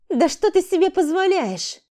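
громкий возмущённый крик, намного выше; злобно возмутиться наглостью; злость. Acted. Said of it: "Сорина злилась". (Рита злится на дерзость Валерии, высокий крик)

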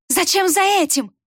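high mocking echo; mocking mimicry. A narrator's reading. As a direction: mimic her words with scorn. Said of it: "передразнила та". (передразнивая, высоко и насмешливо)

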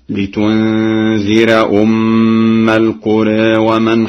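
القرى with alif tilted toward e, slow; Warsh taqlil. Shown as a demonstration. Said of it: "بتقليل الألفاظ التالية". (تقليل القرى)

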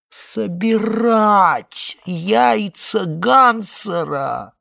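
slow, high, drawn-out groan on собирать яйца Гансера; echoing Marvin with a loud, slow wail; moaning. A narrator's reading. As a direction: groan the words in disbelief. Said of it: "простонало яйцо Гансера".

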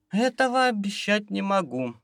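sleepy, fading voice; fighting off sleep, barely audible; nodding off. Acted. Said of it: "сонным голосом из последних сил".

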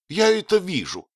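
высокий резкий гневный ответ; отрезать с гневом; жёстко и гневно. Acted. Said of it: "довольно жёстко и гневно". (жёстко и гневно)

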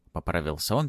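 ordinary delivery

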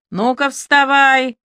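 slow, loud yell right into his ear; shouting вставай in a drunk man's ear. A narrator's reading. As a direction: bark it to wake a drunk. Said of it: "заорала Аля прямо в ухо Мыдлону".

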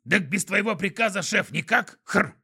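high creature voice, snort; snorting skunk voice. A narrator's reading. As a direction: talk like a snuffling skunk.

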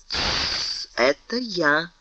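hushed whisper, barely voiced. A narrator's reading. Aramis whispers to wake Porthos secretly, hushed. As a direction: whisper so the sleeper alone hears. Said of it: "прошептал Арамис".

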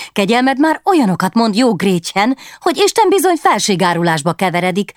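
prim court lady warning of treason; scolding baroness. Acted. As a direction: wag a finger at her. Baroness warns the maid.

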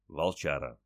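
plain reading voice

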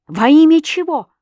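high, loud demand; angry challenge. A narrator's reading. Husband stares the girl down, angry challenge. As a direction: throw the question back forcefully.

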